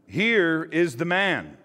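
slow, high, loud proclamation; solemn presentation. A narrator's reading. Pilate presents Jesus to the crowd, slow and loud. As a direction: hold it up before the crowd slowly.

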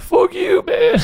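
shouting. Retold or imitated. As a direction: yell it at him. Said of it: "And I went".

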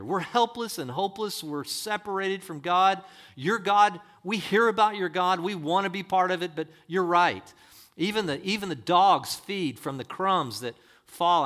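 high, loud outpouring; acting a desperate supplicant; impassioned plea. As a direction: plead at full pulpit force. Acts woman pleading as a Gentile.

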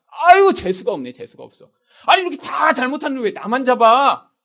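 put-on griping at being singled out; indignant grumbling. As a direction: grumble at your bad luck, then protest. Acted driver griping at being caught.

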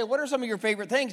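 rushed question. Shown as a demonstration. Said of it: "But if I say".

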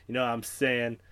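lazy, low and laid back; Matthew McConaughey impression. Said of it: "he kinda talks like this".

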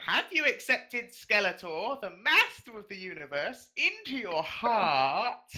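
deep high. Shown as a demonstration. Intern redoing the question on demand in a deep high voice. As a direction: take it slowly and draw out the final words. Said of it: "I'll do it deep high".

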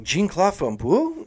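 "Jean-Claude Van Boule" said with English vowels, rising; "Jean-Claude Van Boule" anglicized, slow, questioning; English pronunciation. Retold or imitated. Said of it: "they were like".

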